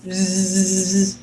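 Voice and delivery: soft buzzing like a giant bee. Retold or imitated. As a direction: buzz like a bee. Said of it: "He could sound like a bee".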